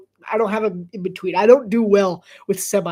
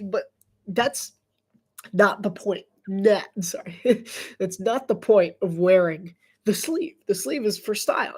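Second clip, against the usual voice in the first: usual speaking voice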